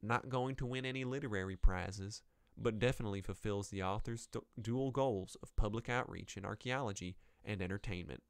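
put-on mild Southern US accent for a reviewer. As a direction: read it out with a light Southern twang. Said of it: "we'll give her a southern accent".

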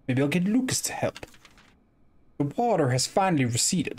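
a hint of a Louisiana Southern accent. Streamer reading a diary, mild Southern accent. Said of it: "That is my best southern accent".

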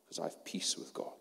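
soft unvoiced whisper. Whispering to the congregation about peace with God. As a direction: let it fall to a whisper.

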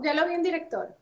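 lightly mimicked Bogotá accent. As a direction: imitate a bogotana producer's singsong. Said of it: "pero así, ¿no?".

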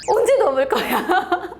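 high, slow question through laughter; laughing retold demand. Waiting friend asks when she will cross, retold laughing. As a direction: laughingly imitate an impatient friend.

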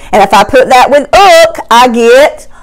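patient phonics teacher, slowed right down; slow teacher blending. Shown as a demonstration. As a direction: look stretched out slowly. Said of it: "L says".

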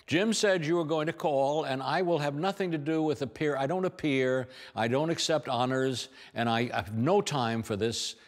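high, rapid-fire brush-off; imitating Kate Hepburn. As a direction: rattle it off before anyone can answer. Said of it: "before you could answer it, she was off this way".

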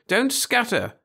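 high, loud, cheery schoolmistress; cheery call. A narrator's reading. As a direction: call out brightly to a group of children. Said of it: "called Miss Burton cheerily".

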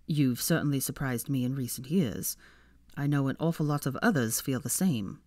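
low, teasing Malfoy; lightly voiced Malfoy.

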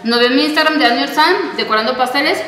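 talking around a mouthful of cookie; mouth full. Real, not acted. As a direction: speak while still chewing. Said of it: "hablando con la boca llena". (con la boca llena)

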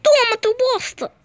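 high mocking taunt. Real, not acted. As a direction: gloat at the enemy.

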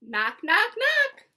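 punchy knocks jumping up in pitch; imitated door knock, last one high. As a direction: rap the words out like knocks. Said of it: "like a hand on a door".

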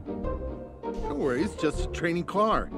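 slow, near-whispered reassurance; reassuring. Acted. Instructor calming a nervous student: slow soft reassurance. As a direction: ease her nerves gently.

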